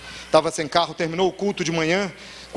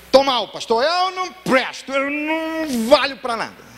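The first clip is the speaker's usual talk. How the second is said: higher, slow, choked self-pity; drunk man's despair; 8 semitones higher, 4 dB louder, slower than usual. Retold or imitated. A drunk Marcelo tells his pastor he is worthless, in despair. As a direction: plead your own worthlessness, dragging every word. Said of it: "Ele chegou".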